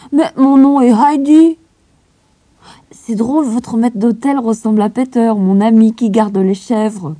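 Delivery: put-on high, loud child voice; little girl. A narrator's reading. Heidi insisting on her name, high child voice. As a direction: insist innocently like a small girl. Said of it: "Heidi talks to governess".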